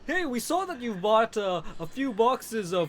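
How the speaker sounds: lightly voiced pushy sales pitch; hammed-up online store salesman; mock ad voice. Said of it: "I get a lot of recommendations for".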